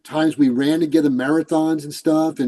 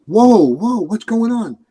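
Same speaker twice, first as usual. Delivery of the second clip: startled high whoa, imitating a friend; a friend's sudden worried exclamation; retold alarmed outburst; 6 semitones higher, 3 dB louder, slower than usual. Friend alarmed at his tears.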